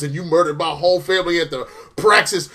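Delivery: loud, hammed-up villain declamation; melodramatic accusation. Vengeful villain accuses his family's killer, loud melodrama. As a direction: build to a mock-grandiose roar.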